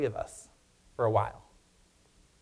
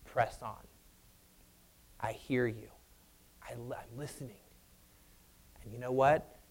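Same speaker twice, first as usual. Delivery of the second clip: God's soft reassurance; 3 semitones lower, 5 dB quieter than usual. Retold or imitated. Voicing God to workers.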